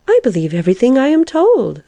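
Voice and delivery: high, eager protest; hasty assurance. A narrator's reading. Caterpillar assuring the doubting lark, hastily. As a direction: jump in with a high-pitched assurance. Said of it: "observed the caterpillar hastily".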